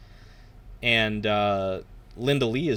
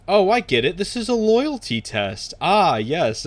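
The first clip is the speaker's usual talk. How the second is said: high, bright excited guard; dude voice; 8 semitones higher, 6 dB louder than usual. Retold or imitated. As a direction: squeak it out like an eager guard. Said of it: "the dude's just like".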